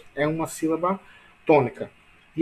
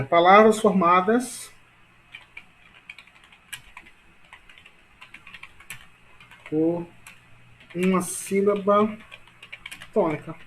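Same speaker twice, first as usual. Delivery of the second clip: slow chunks with long pauses; slow dictation; 2 semitones higher, slower than usual. Shown as a demonstration. Teacher dictating definition to class, slow dictation. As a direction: dictate piece by piece while writing.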